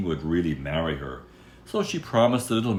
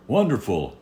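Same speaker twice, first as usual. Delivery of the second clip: delighted cry; 5 semitones higher, 6 dB louder than usual. Acted. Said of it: "he cried".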